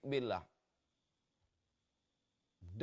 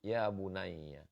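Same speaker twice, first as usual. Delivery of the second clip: tender call; 2 semitones lower, slower than usual. Shown as a demonstration. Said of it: "masuk ke lubuk hatinya".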